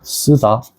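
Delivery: 쓰다 with a hard, tense S; tense Korean ㅆ. Shown as a demonstration. Teacher models 쌍시옷 in 쓰다. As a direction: press 쓰다 with a strong hissed S. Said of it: "but it has to be much stronger".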